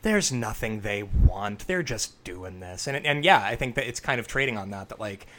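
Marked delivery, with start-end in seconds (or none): 0.0-2.9 low, slow Geordie voice; thick Geordie accent. Retold or imitated. Retelling a horror film character's reply, thick Geordie accent. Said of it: "says in a very thick Geordie accent".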